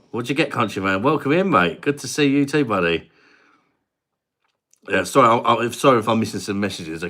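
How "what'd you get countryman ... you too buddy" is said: put-on higher, louder cheery Indian-accent welcome; Rundy's Indian accent. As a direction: welcome viewers warmly as Rundy. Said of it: "an Indian guy called Rundi".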